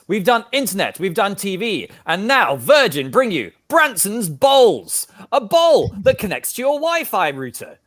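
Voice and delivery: high, punchy TV-ad announcer; spoof advert read. Acted. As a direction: sell it like a big brand launch. Interrupts scene with spoof advert.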